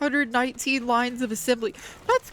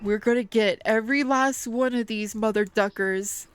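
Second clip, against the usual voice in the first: mock solemn vow; 3 semitones lower than usual.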